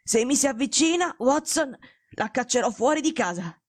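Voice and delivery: weak but bossy patient; authoritarian. Acted. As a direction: threaten him with authority from the sickbed. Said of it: "Era più autoritario che mai". (malato autoritario)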